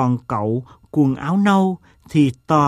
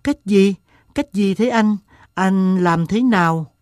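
higher-pitched, insistent questions; impatient listener pushing to know more; impatient questioning; 6 semitones higher than usual. A narrator's reading. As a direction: press eagerly for the answer. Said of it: "một bà sốt ruột hỏi dồn".

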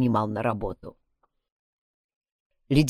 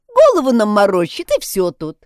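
mocking; 5 semitones higher, 8 dB louder than usual. A narrator's reading. Sal continues mocking.

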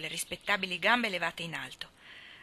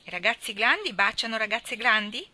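put-on naive child question; 3 semitones higher, 5 dB louder than usual. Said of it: "domanda ingenuamente".

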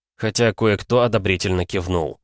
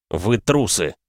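gritted-teeth contempt; through gritted teeth; slower than usual. Acted. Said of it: "процедил я сквозь зубы".

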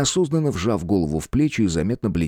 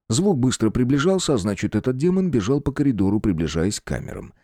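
ordinary delivery, nothing marked

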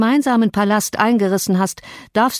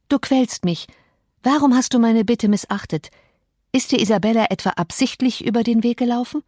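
a lightly voiced young lady, a touch higher and hurt; Catherine reproachful; 3 semitones higher than usual. Catherine confronting Heathcliff about Isabella, lightly voiced higher reproach. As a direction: press him with wounded questions.

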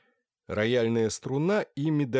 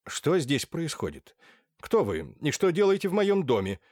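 voiced general; 6 semitones higher, 3 dB louder than usual. A narrator's reading. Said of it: "так торопился".

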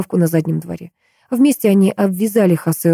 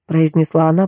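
ordinary delivery, nothing marked

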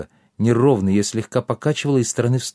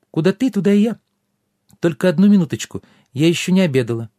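fairy voice; 7 semitones higher, 3 dB louder, faster than usual. A narrator's reading. Fairy speaks.

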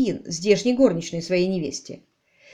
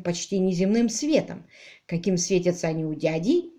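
usual speaking voice

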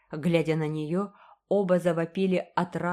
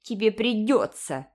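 stubborn repeat, a little louder; 4 semitones higher, 4 dB louder than usual. A narrator's reading. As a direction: dig in your heels. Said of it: "упрямо повторила Айви". (упрямо)

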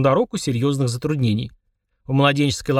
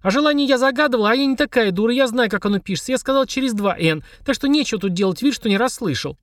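put-on furious child; 9 semitones higher than usual. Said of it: "аж подпрыгивая от ярости".

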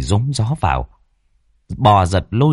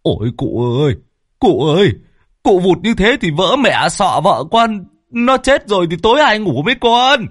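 high, louder whining plea; whimpering; 10 semitones higher, 4 dB louder than usual. A narrator's reading. Husband wails to the old master over his wife, high whining. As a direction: wail in comic distress. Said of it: "xót vợ mếu máo".

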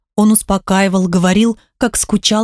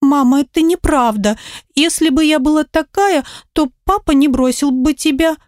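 sobbing; 6 semitones higher than usual. Acted. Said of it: "всхлипывала она".

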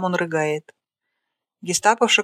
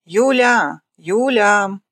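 loud, higher call across the room; commanding shout; 3 semitones higher, 5 dB louder, much slower than usual. A narrator's reading. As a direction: bark the name to summon her. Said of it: "Гестаповша командным голосом". (громко зовёт помощницу командным голосом)

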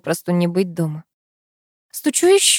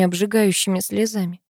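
usual speaking voice

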